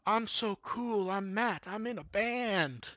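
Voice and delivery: slow laid-back surfer dude, lightly done; hammy dumb surfer impression; mock surfer voice. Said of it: "doing mock surfer voices".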